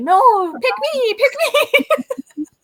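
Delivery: put-on scream, loud, very high and very slow. Retelling how a jar of dark wax begged to be chosen: voicing the wax screaming at her. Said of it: "the dark one just kept screaming at me".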